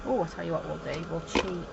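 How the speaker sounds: loud eager sudden idea; excited. Real, not acted. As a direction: burst out with a sly plan. Sudden idea while working.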